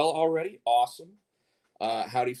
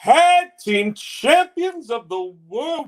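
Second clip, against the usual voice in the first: ringmaster; 5 semitones higher than usual. Acted. Ring announcer introduces tag champions.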